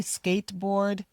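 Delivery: skateboard with no D release; skateboard, D dropped; skateboard, drop the final D. Shown as a demonstration. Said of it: "or the D".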